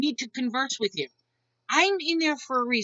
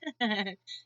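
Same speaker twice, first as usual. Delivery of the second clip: imitated laugh; 3 semitones lower, 7 dB quieter than usual. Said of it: "I'm like".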